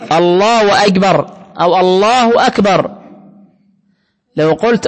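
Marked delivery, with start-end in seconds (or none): 0.1-1.3 "الله أكبر" slow, with "الله" dragged out; wrong drawn-out take. Shown as a demonstration. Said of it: "مش هذا وبس". 1.8-3.0 "الله أكبر" slow, "الله" stretched; wrong drawn-out take. Shown as a demonstration. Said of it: "مش هذا وبس".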